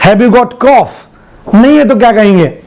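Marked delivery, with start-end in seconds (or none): 0.1-1.5 slow model question. Shown as a demonstration. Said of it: "कैसे पूछूं".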